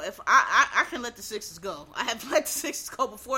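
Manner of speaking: laughing through the words. Real, not acted. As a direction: chuckle while saying it. Laughing about giving up Sixers.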